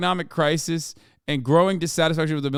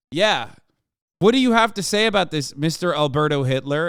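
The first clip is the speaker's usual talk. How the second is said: mock interviewer; 3 semitones higher, 5 dB louder than usual. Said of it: "And they're like".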